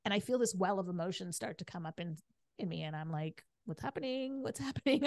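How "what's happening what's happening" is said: acted bewilderment. Meditator retelling her surprise at welling emotion, acted bewilderment. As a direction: replay a mildly alarmed inner voice. Replays confusion as tears well up.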